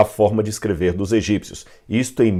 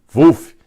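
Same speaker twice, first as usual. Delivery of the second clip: a loud, higher barked vuf; sudden louder woof sound; dog bark imitation; 4 semitones higher, 7 dB louder than usual. Shown as a demonstration. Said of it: "o cachorro faz vuf".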